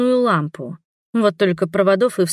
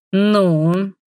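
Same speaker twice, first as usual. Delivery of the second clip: impatient hiss. A narrator's reading. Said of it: "нетерпеливо процедил брат Игнар".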